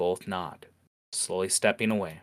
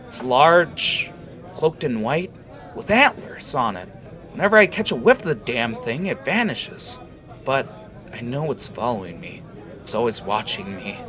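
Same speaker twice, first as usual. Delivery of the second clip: haunted orc; 4 semitones higher, 4 dB louder than usual. Acted. Orc describes haunting beast.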